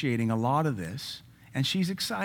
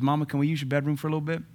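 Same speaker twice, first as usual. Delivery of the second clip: lightly voiced daughter; much faster than usual. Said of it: "She sounds like she gets home".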